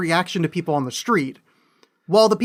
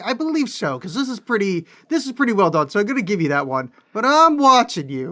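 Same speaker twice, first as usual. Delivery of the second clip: higher, teasing mock warning; mock grudging approval; 4 semitones higher, 3 dB louder than usual. Talking back to the filmmaker, mock grudging warning. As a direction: grant it, then warn him playfully.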